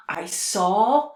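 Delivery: sudden hushed whisper on the words; whispered aside. Real, not acted. Speaker recalling her vision, whispered. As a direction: drop to a whisper as if sharing a secret.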